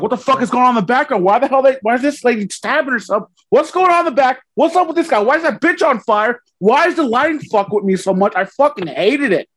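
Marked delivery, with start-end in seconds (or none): 0.0-8.3 overwhelmed. Retold or imitated. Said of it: "I was like".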